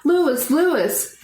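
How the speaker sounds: high, urgent call of a name; screaming. Acted. Girl running toward the fire, screaming for Lewis. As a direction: shout for her brother across the field. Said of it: "screaming the whole way".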